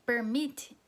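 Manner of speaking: "permit" slowly drawn out, weight on "mit"; slow teacher demo of "permit" with the stress on "mit"; stress on the last syllable. Shown as a demonstration. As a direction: stretch "permit" and lean on "mit". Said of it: "qual que é a sílaba tônica?".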